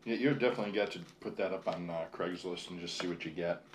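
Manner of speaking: talking with a mouthful; words around a bite of food; chewing while talking. Real, not acted. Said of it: "Sorry, I'm chewing".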